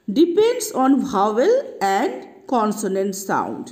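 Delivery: very slow, deliberate rule statement; slow rule read. Shown as a demonstration. Teacher giving students the rule, slow and deliberate. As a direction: spell out the rule slowly. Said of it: "teacher states rule slowly".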